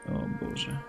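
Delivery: hushed unvoiced gasp of dread; whispered oh God. Real, not acted. To himself at the creepy door, whispered dread. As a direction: breathe it out scared. Creeped out entering dark room.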